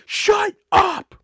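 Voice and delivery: sudden high, loud "Shut up!" cutting him off; teacher yelling. Retold or imitated. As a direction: bark it at the student to silence him.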